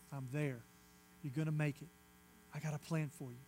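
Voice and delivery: hushed and gentle, almost murmured; God's soft whisper. Acted. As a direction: speak it low, like a secret meant for one. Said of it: "It's just a whisper".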